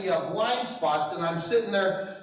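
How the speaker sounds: ordinary talk, nothing marked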